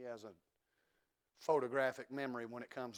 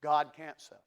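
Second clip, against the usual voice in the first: louder, with GOD hit hard; forceful declaration; 7 dB louder than usual. Real, not acted. Preacher declaring a truth to the congregation, forceful. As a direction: proclaim God can't suffer, ringing out. Repeats the claim, now forcefully.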